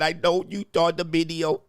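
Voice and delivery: half-managed imitation of a Filipina accent; attempted Filipina accent. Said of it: "I wish I could speak in her accent".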